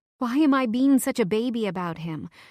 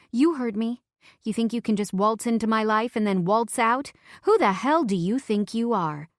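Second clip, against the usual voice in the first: angry; 3 semitones higher than usual. Acted. Drunken angry text.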